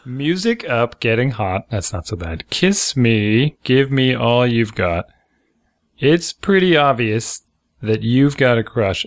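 flat, slow lyric reading; deadpan reading. Shown as a demonstration. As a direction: read it dry and unimpressed. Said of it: "read it deadpan".

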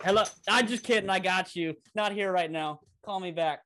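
cheeky fake answering message, a touch hammed-up; mock voicemail greeting. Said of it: "And he's like".

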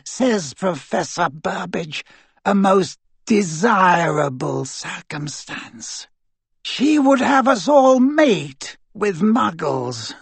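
high, slow, scornful fury; contemptuous anger. Acted. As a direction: spit it out with contempt. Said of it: "the anger and contempt in Voldemort's voice".

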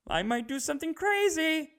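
mock threat. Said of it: "what you're doing is you're saying".

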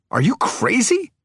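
high, rising incredulous outburst; enraged. A narrator's reading. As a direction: rage at her in disbelief. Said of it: "Henry raged".

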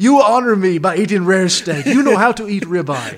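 put-on loud, high Brazilian accent with a laugh; a hammed-up Brazilian chef full of praise. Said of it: "killer Brazilian accent".

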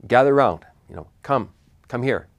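loud call to gather round. Retold or imitated. Elijah calling the people of Israel to come near, loud call. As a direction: call the crowd in, loud on the first words. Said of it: "he called to them".

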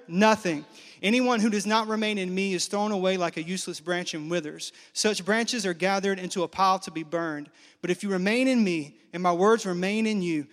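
a steady pulpit reading voice; scripture reading. Acted. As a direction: read the verses with weight. Reads scripture aloud.

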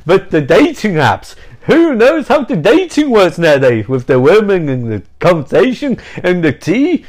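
comic vampire with big swoops in pitch; hammed-up Dracula voice. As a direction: play a ranting, baffled single vampire. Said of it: "He's like".

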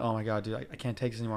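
low, quiet, queasy moan; sick groan. Retold or imitated. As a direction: moan it like you're about to be sick. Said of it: "I'm like".

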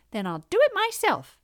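high, loud hen voice; resolute little hen. A narrator's reading. Little red hen to lazy housemates, resolute. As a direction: declare it briskly to the shirkers.

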